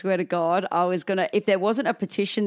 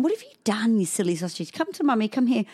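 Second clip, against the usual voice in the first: higher, lilting mummy talk; coaxing mum; 3 semitones higher than usual. Retold or imitated. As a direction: coax a little one over, lightly singsong. Mum coaxing her toddler.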